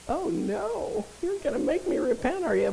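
mock whiny protest. Preacher voicing herself complaining to God, mock whine. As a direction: whine like a caught kid.

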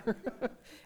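rising amused laugh; short amused chuckle; real laugh. Real, not acted. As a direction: let a laugh bubble up. Laughs at own story.

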